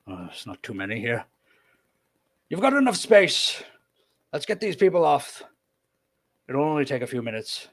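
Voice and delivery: high, loud put-on voice; jolly, persuading the fishermen; Orsoth speaking. Orsoth urging the fishermen to take people, high put-on voice. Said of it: "he kinda looks and he goes".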